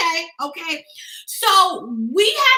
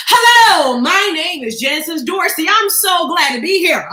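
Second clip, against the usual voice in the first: slow, louder, projected introduction; confident introduction; 4 dB louder, slower than usual. Shown as a demonstration. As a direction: project to the back of the room. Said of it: "you've gotta be confident".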